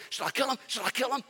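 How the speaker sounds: imitating an overeager king; excited repeating. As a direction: blurt it out twice, itching to act. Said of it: "what happens when we get excited".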